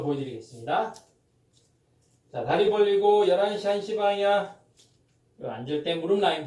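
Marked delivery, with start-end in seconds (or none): 2.3-4.6 high, loud coach calling the stance; barking gym coach. Acted. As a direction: call the stance cue to the class.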